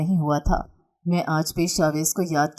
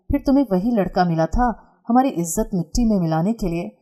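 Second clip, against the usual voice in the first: angry scolding. Acted. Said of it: "गुस्से से".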